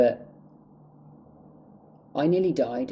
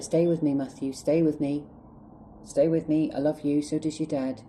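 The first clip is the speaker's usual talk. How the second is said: higher-pitched imitation of mum begging; pleading mum; 4 semitones higher than usual. Mum pleading with her dying child, higher urgent imitation. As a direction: retell mum's urgent plea, pitched up. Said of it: "She was like".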